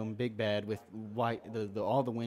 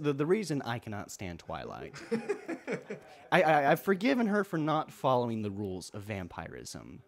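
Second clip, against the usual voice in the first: laughing; 4 semitones higher, 4 dB louder than usual. Real, not acted. Laughing about Twilight.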